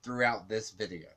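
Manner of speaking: a light take on Amanda; Amanda impression. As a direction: mimic her repeated phrasing lightly. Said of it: "quick impression of Amanda".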